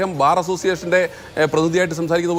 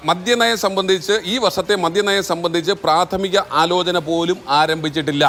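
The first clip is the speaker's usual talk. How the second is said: slow, deliberate read-out; measured, slowed quotation; reading a quote; slower than usual. Shown as a demonstration. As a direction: read it out word by word for the record. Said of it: "ഞാൻ അദ്ദേഹത്തിൻ്റെ വാചകം ഒന്നുകൂടി വായിക്കാം".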